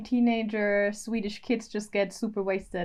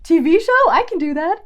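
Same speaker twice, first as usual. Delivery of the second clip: higher, louder quoted voice; mock-keen, raised voice; voice assistant's eager reply; 8 semitones higher, 8 dB louder than usual. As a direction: play an assistant keen for airtime. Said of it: "She was like".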